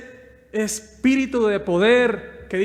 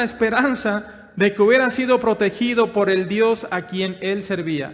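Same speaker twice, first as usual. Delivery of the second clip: raised, ringing pulpit voice, pushing each phrase; full-force preaching; 4 semitones higher, 5 dB louder than usual. Acted. Pastor preaching to the brothers, loud and rising. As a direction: preach it out to the whole congregation.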